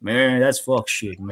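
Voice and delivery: slow mock African American accent; drawn-out imitation African American street speech; put-on African American accent, stretched out. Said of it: "they just talk like that".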